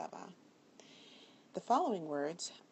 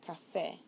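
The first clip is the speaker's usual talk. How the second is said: FÉ stressed in Café. Shown as a demonstration. Teacher explains the broken rule, Café stressed on FÉ. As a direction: say Café with the weight on its final syllable, FÉ. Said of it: "it's actually on the E".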